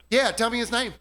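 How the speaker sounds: high chirpy egging-on voice; chirpy Karen friend. Retold or imitated. Friend backing up the Karen, chirpy and pushy. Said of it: "Karen chirp, you know, friend with her".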